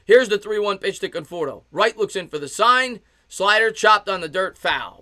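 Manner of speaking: lifted baseball radio call; live play-by-play. Real, not acted. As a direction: call the pitch as it happens. Calls the pitch live.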